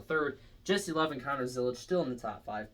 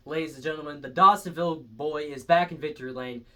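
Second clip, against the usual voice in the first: louder, triumphant announcer lift; announcing the win; 6 dB louder than usual. Real, not acted. Host hyping Chase Elliott's win to viewers, excited announcement. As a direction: sell it like a victory call.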